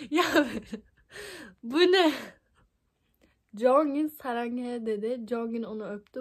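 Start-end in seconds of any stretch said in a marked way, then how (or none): 0.1-2.1 incredulous. Real, not acted. Shocked by the fanfic line.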